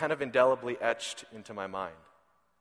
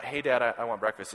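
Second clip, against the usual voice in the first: plain-ish son voice; 4 semitones lower than usual. Shown as a demonstration. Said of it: "it's not".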